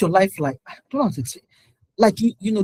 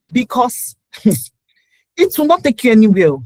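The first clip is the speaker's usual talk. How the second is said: laughing; 3 semitones higher, 5 dB louder, slower than usual. Real, not acted. Laughs at own warning.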